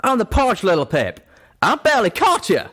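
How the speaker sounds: loud, high angry rebuke. Acted. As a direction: chew her out. Calamity angry at Pip.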